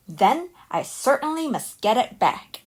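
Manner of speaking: bursting out, determined to win it back; eager exclaim. Acted. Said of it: "Jack exclaimed".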